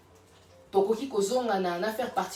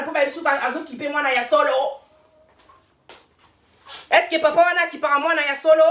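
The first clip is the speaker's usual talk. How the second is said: 1 heated rant; 4 semitones higher, 7 dB louder than usual. Real, not acted. Ranting about mothers.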